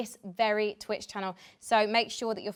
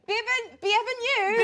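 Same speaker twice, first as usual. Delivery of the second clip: French greeting; 12 semitones higher, 3 dB louder, slower than usual. Pretend.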